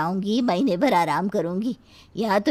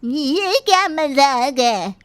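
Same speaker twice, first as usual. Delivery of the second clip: a slow, loud, indignant demand; furious at being tricked again; angry granny; 5 semitones higher, 5 dB louder, slower than usual. Acted. Grandmother-in-law angry at second prank.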